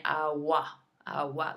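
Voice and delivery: agua said AH-wah. Shown as a demonstration. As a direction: soften the g of agua into a W glide. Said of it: "like it was a W".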